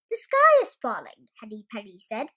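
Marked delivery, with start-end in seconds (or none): 0.1-1.3 high, loud alarm. Acted. Henny Penny warning Turkey Lurkey, high and loud. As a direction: cry it out in fright.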